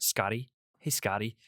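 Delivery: mock American twang on the name. Imitating an American twang to his girlfriend. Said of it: "speaking in this weird American twang".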